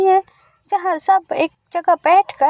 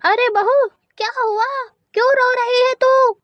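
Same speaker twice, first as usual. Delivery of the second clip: put-on higher worried old crow; concerned mother-in-law; 6 semitones higher than usual. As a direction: ask what's wrong, worried. (चिंतित सास)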